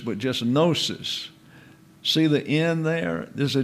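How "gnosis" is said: gnosis with a silent g, said as nosis. Shown as a demonstration. Teacher showing the class that the g of gnosis is silent. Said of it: "You ignore the gamma".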